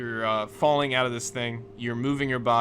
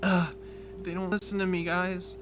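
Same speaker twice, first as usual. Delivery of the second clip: frustrated complaint; 6 semitones higher than usual. Acted. Sarah fails to control creatures.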